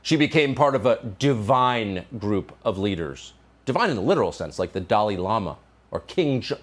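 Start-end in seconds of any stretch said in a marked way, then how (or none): 0.0-3.3 slow, lower mock-solemn quote; mock reverence. Host repeating a children's tribute line, mock reverence. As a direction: quote it slowly with mock awe.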